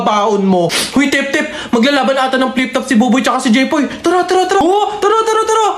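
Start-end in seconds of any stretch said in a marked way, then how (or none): 4.0-5.7 excited hype. Acted. Hyping the flip top battle.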